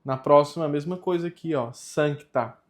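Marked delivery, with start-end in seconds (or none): 1.7-2.6 "Sancta" with the C spoken as a K; sounded C. Shown as a demonstration. Teacher warning that this C must be said, careful demo. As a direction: let the K click in "Sancta". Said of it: "Esse C precisa ser dito".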